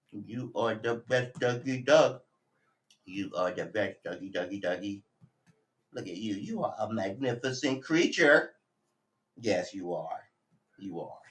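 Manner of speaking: gushing softly at the puppy; doting pet talk. Real, not acted.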